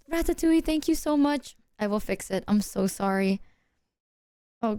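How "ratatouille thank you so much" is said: light up with a gasp; excited gasp. Real, not acted. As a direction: gasp then thank, fast and high. Gasp on learning gifter name.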